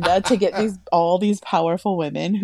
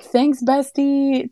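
higher, slow mock-sweet teasing; teasing thanks; 9 semitones higher, much slower than usual. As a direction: lay on the fake sweetness to needle the coach. Rival fan teasing Utah coach.

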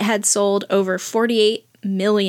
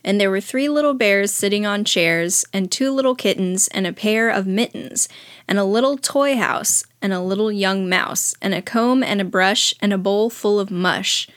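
put-on reading to children. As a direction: read it like a bedtime book. Reads Goodnight Moon aloud.

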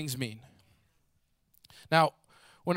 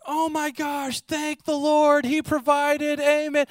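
much higher, delighted exclamation of thanks; overjoyed that her prayer was answered; joyful praise; 9 semitones higher, slower than usual. Retold or imitated. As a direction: widow finding groceries on her porch, much higher and elated. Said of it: "she's like".

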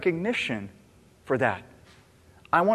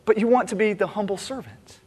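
quick, higher, louder mocking reply to a giver who wants credit; sarcastic retort; 4 semitones higher, 4 dB louder than usual. Pastor mocking an anonymous giver who craves credit, sarcastic and quick. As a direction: needle them for wanting it both ways. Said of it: "I'm thinking".

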